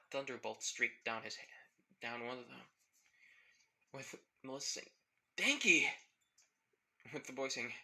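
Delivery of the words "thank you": glad cry. Acted. Melissa's relieved exclamation.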